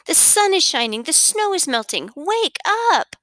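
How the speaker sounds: high, thrilled calling out; extremely excited. A narrator's reading. Frog telling Toad that spring has come, extremely excited. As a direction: burst with good news, urging a friend up. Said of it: "Frog sounds like he is extremely excited".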